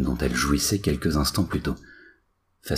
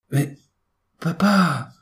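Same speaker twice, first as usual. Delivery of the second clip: whiny protest; 4 dB louder, much slower than usual. Acted. Son protests.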